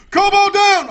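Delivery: high, loud victory cry; triumphant callout. Real, not acted. Gamer calls out a kill mid-fight, high and excited.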